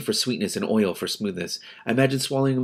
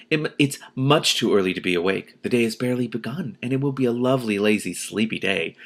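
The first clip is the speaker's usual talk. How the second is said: soothing. Acted. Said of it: "I continued soothingly".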